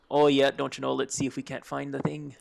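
loosely attempted Midwestern accent; folksy Midwesterner, not quite convincing. Podcaster trying an accent for co-host, shaky Midwestern accent. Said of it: "Do a better Midwestern accent than that".

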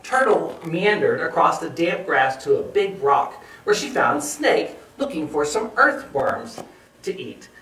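put-on measured read-aloud for young children; story narration. A narrator's reading. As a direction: tell it clearly, phrase by phrase.

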